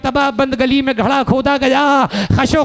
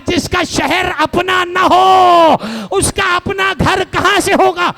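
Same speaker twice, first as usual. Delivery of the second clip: grieving cry; 6 semitones higher than usual. Acted. Muslim weeping answers Tauba.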